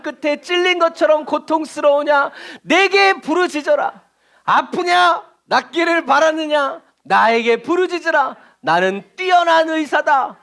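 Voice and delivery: high, slow, commanding proclamation; ringing, stretched-out divine decree; voice of God. Shown as a demonstration. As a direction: declaim it like God calling to the people. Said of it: "미친 척하고요, 정말 하나님의 목소리처럼".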